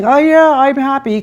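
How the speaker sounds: mock cheer, pitched high; exaggerated, insincere "everything's great" voice; fake happy. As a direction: put on a big fake smile. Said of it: "with a big fake smile on your face".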